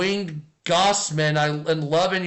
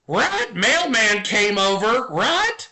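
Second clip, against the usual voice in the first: parrot voice; 3 semitones higher, slower than usual. Acted. Streamer voicing a tattling parrot in a dirty joke, squawky and rising. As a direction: play the parrot, ending each bit with a shrill rising right.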